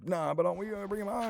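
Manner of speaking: put-on high, pleading child voice; a boy asking his brother to carry the tadpoles home; little kid voice. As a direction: play your younger self begging. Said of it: "And I was like".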